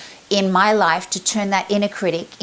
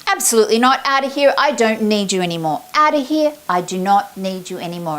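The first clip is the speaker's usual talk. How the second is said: drown it out. Shown as a demonstration. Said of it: "I go".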